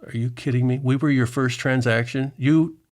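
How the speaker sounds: astonished, half laughing; surprised. Retold or imitated. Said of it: "She goes".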